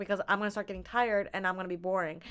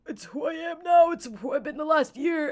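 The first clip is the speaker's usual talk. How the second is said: raised, louder imagined comeback; defensive retort; 6 semitones higher, 4 dB louder than usual. Retold or imitated. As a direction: snap back defensively at the critics. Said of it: "And I'm like".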